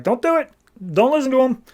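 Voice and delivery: high pleading little cat; a pet cat begging in a high voice; squeaky cat voice. Acted. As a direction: play the cat, high and urgent. Cat Socks voiced in retelling.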